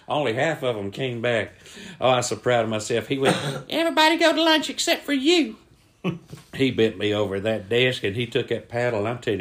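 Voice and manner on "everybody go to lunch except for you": high, strained coach voice; single out the culprit, high-pitched; irate coach. Acted. Coach dismissing everybody but the culprit, high and irate.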